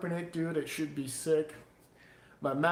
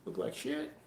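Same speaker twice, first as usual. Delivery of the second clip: whispered scoff; 7 dB quieter than usual. Retold or imitated. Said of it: "people are like".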